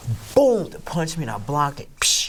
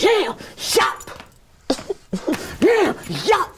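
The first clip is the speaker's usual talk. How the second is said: battle cry; much slower than usual. Retold or imitated. His own battle cry in the fight.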